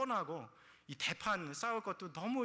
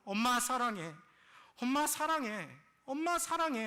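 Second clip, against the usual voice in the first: louder, high-pitched "I love you", climbing with each repeat; insistent retold plea; 8 semitones higher, 5 dB louder than usual. Daughter gripping her struggling mother, loud insistent declaration of love. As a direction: push it harder each time, voice rising. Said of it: "계속해서 더 힘줘서".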